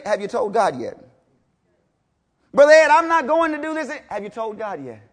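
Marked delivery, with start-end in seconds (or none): 2.5-3.9 higher, louder mock protest; mock congregant. Preacher imitating a church member protesting to him, mock whine. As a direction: whine the excuse lightly.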